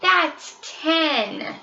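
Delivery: high excited little roar; triumphant cub roar; mock roar. A narrator's reading.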